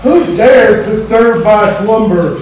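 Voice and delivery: vampire voice. Acted. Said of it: "Yes, he's a vampire!".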